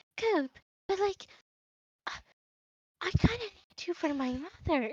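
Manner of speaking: quiet, high, soft half-whisper. Voicing a character answering a companion about her mother, half-whispering. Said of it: "She kind of whispers".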